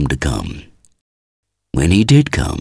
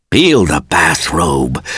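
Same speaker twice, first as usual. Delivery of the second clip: pleading almost tearfully; slower than usual. Acted. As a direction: beg a friend to give it up, mildly tearful. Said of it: "pleaded Ayres almost tearfully".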